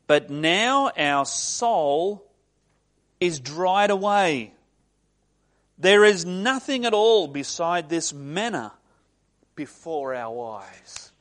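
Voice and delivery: loud, slow drawn-out complaint, falling away at the end; mock tantrum, stretching each grievance out loudly. Preacher quotes the Israelites' complaint about manna, mock tantrum. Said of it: "They were having a little tantrum here".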